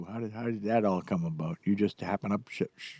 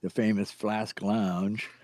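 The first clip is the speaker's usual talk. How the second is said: mock grand announcement; 6 semitones lower, 4 dB quieter, much slower than usual. Grand mock tour-guide intro.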